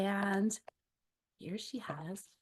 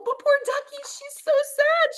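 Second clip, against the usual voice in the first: 1 sympathetic sad; 8 dB louder than usual. A narrator's reading. Narrator sympathising.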